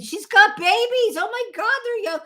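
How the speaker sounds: high mock husband voice, shocked; imitating husband. Retelling how Jim reacted at Costco, high mock shock. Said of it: "Jim said".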